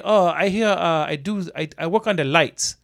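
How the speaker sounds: halting broken English in a lightly imitated foreign accent. Electrician imitates the other worker, halting foreign accent. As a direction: put on a hesitant foreign accent. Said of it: "great accent".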